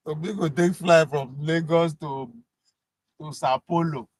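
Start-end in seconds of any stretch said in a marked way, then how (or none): none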